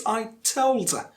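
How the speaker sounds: "told her" run together as "tol-der"; linked TOLD HER. Shown as a demonstration. Teacher showing learners linking, "told her" as one word. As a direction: link a weak "er" onto stressed "told". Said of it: "you link a with told".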